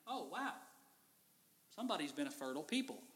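hushed, amazed bystander muttering; a stunned onlooker under his breath; amazed Egyptian. Retold or imitated. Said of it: "I'm like".

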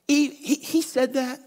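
slow, drawn-out sarcastic serpent; mock God's word with slow scorn; mocking disbelief. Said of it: "he's mocking God".

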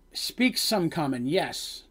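slow, halting foreign guard; a hint of a guard picking out each word; broken common speech. Foreign guard answering the party in halting common. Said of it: "the way he's talking, it's very broken".

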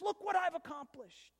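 high, triumphant shout of pride; a boy crowing on a summit; proud cry. Acted. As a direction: throw it out to the sky, full of yourself. Boy proud atop the mountain.

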